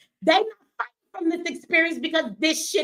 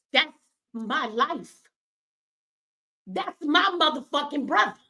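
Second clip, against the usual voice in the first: tearful, choked; slower than usual. Real, not acted. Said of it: "my crying, angry ass".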